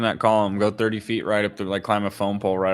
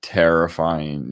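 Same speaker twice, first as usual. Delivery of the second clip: lower, slow, hushed, ending on a sudden push; imitating his own early-morning fright; hushed dread; 8 semitones lower, slower than usual. Six in the morning, scared on a job, hushed dread. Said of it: "where you're like".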